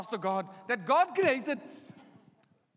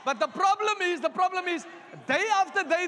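shouting; 4 semitones higher, 4 dB louder than usual. Real, not acted. Preacher builds to a shout.

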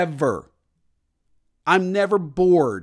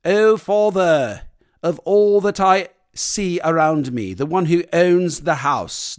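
hammed-up lofty plea for the car keys; overly formal teenager begging like a psalm; mock formal prayer to dad; 3 dB louder than usual. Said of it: "you wouldn't come in there and go".

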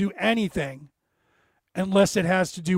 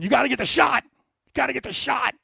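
higher, mocking voice of a zealous liberal; higher sneering impression of liberals demanding the shot; 5 semitones higher than usual. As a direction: parrot the demand in a higher put-on voice. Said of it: "you same people are going".

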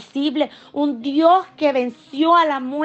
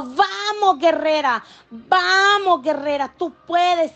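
gently rally a fallen warrior to breathe; encouraging voice of God; 2 semitones higher, slower than usual. Retold or imitated. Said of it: "oí una voz que me dijo".

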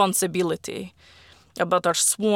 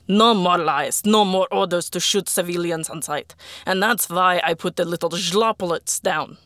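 louder, hard angry address to the troops; loud angry speech; 4 dB louder than usual. Acted. Arkady rallying the soldiers, loud angry speech. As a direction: lay into them, furious and loud. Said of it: "a loud, angry speech".

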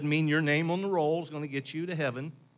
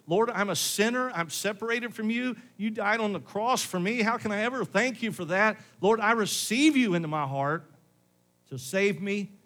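raised, fervent sinner's prayer; loud earnest prayer; 6 semitones higher, 3 dB louder than usual. Pretend. Preacher voicing a sinner praying aloud, loud and fervent. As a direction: cry out to the Lord in surrender. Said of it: "may have not been loud and boisterous like that".

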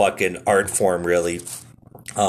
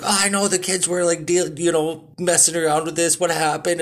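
higher, puzzled coworker voice; imitating coworker; 8 semitones higher than usual. Coworker puzzling over his broken mouse, mock confused. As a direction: play the confused guy at his desk. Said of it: "And he goes like".

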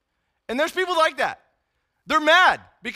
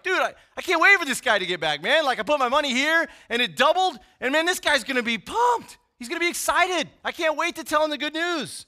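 fast, higher, eager retelling; excited; 4 semitones higher than usual. Retold or imitated. Servant gushing about doubled money, fast and excited. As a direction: rattle it off like he can't wait. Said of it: "He was excited".

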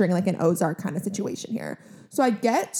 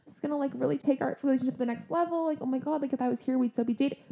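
soft, giddy inner voice, half to herself; mock-dreamy whispery wishful thinking; hushed daydreaming hope; 3 semitones higher, 7 dB quieter, faster than usual. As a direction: breathe it like a secret fantasy. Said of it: "went into this thing thinking".

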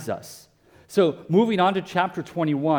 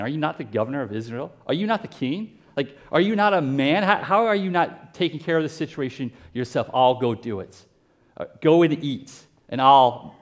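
mocking. Jezebel taunting her sulking husband Ahab, mildly mocking. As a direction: needle him like a scornful wife. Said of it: "she mocks him".

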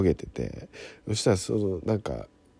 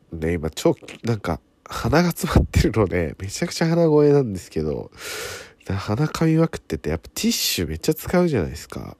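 stuffy nasal voice from a cold; blocked nose. Real, not acted. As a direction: talk through a blocked nose.

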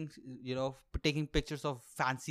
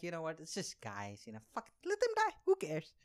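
mock callous shrug. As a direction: toss it away like nobody cares. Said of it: "you would just be like".

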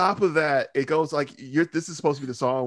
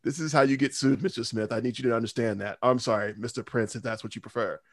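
imitating a lawyer; 3 dB quieter than usual. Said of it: "a lawyer should have heard this and been like".

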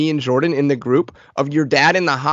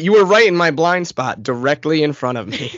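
sarcastic, emphatic fake excuse; mocking excuse. Friend mocking the at-fault driver, sarcastic. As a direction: lightly mimic a clueless driver.

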